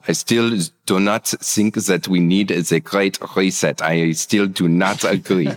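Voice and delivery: put-on German accent with hard consonants. Co-host objecting before sign-off, in a put-on German accent. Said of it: "your German accent was way better than Luke's".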